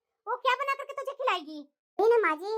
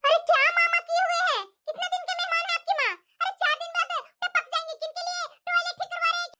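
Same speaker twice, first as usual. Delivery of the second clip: higher-pitched, exasperated scolding; scornful quarrelling; 4 semitones higher than usual. Acted. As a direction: lay into your husband, pitch raised. Wife scorns his mother in quarrel.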